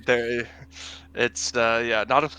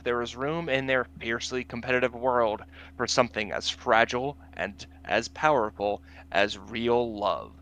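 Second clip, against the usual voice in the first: dramatic trailer-style read; narrator voice. Pretend. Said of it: "get your narrator voice".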